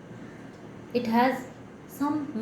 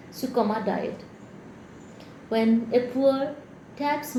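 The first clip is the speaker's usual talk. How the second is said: solemn elegy read in measured phrases; deliberate poetic cadence; poem recital. Acted. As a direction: recite line by line, pausing after each image. Reads own poem aloud.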